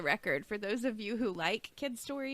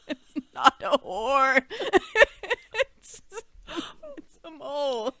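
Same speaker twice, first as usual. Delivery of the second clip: slow, helpless laughter breaking up the words; cracking up mid-sentence; laughing hard; 5 semitones higher, 8 dB louder, slower than usual. Real, not acted. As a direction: squeeze the words out through real laughter. Helpless laughing at her own story.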